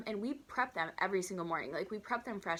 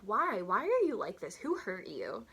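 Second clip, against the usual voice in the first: incredulous in my head; 4 dB louder than usual. Pretend. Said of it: "in my head, I'm like".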